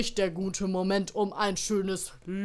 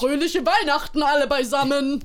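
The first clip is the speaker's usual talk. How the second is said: jolly Santa greeting; 5 semitones higher, 5 dB louder than usual. Acted.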